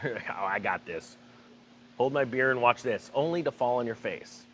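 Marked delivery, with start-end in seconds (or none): 0.0-3.1 cocky son. Retold or imitated. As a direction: brush off the warning with swagger. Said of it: "the son's getting real cocky".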